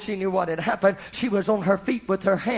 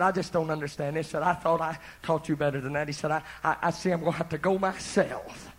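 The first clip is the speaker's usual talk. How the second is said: soft, lowered, defeated sighing; dismayed murmur; 4 semitones lower, 8 dB quieter than usual. Retold or imitated. Vicar giving up on his wife, soft dismayed murmur. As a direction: mutter it in bafflement.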